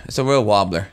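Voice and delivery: R of "wobbler" comes out as W; trouble with R's. Real, not acted. Friend struggling with R's, R said as W in "wobbler". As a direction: say "wobbler" with a W where R is meant. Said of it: "have a hard time saying W's and R's".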